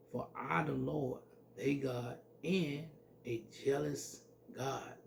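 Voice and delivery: measured pulpit scripture voice; scripture reading. Acted. Preacher reads scripture aloud.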